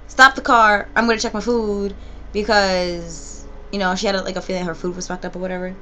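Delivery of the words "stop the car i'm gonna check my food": louder mock demand from the friend; bossy friend demanding. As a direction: bark it like a friend who suspects her food. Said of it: "So she said".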